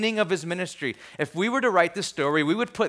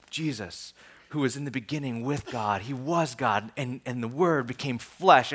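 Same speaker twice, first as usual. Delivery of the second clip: low, hushed film-opening narration, lightly done; understated dramatic voice-over, no accent; 4 semitones lower, 3 dB quieter than usual. Retold or imitated. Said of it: "it's all dramatic".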